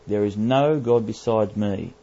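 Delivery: "no God besides me" slowed, with weight on NO; slow, firm stress on "no God"; emphatic repetition. Real, not acted. Preacher repeating the verse to prove the point, emphatic. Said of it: "It's most emphatic".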